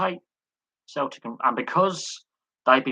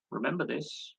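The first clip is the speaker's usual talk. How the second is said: quieter, falling "Remember this"; softer repeated reminder; 4 semitones higher, 9 dB quieter than usual. Real, not acted. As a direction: drop the voice and let "Remember this" sink in. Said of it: "This is very crucial".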